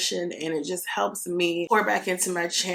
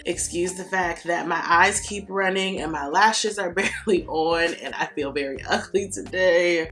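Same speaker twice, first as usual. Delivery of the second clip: croaky, worn-out cold voice; sick hoarse voice. Real, not acted. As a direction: push through a sore throat. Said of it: "excuse my voice or lack thereof".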